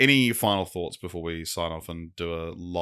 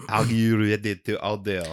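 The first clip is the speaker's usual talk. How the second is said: put-on French accent. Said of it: "The waiter has a very thick French accent".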